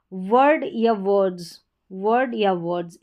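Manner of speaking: वर्ड and वर्ड्स with a short schwa "vurd"; pronunciation model. Shown as a demonstration. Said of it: "इस तरीके से pronounce करेंगे".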